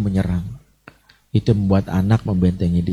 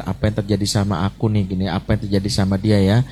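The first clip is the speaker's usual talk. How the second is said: quick inner thought; 2 semitones lower, faster than usual. Shown as a demonstration. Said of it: "T itu thinking".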